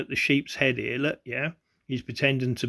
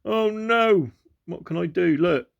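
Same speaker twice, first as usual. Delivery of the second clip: mock panic; 4 semitones higher than usual. Narrator imitates the man seeing the sign, mock panicked. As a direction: ham up a man who has just spotted the sign and panics. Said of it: "He goes".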